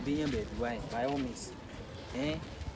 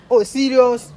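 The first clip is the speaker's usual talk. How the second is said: surprised; 5 semitones higher, 13 dB louder, slower than usual. Real, not acted. Surprised reply to friend.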